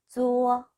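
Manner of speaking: "쪼어" drawn out on a level tone; pronunciation demo. Shown as a demonstration. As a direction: model "쪼어" slowly on one even note. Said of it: "쪼어라고 읽으시면 되겠죠?". ("쪼어"를 평평하게 길게 읽는 발음 시범)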